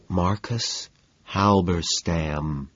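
soft, very slow hushed name; whispered. A narrator's reading. Patrick whispers the fake name again. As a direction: breathe the name out under the call. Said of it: "I whisper again".

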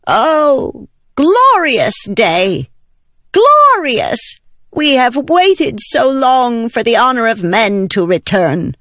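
high, drawn-out exultation; overjoyed little spren. Acted. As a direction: swoop up high with rapturous joy. Frightened spren rejoices at Radiant's arrival.

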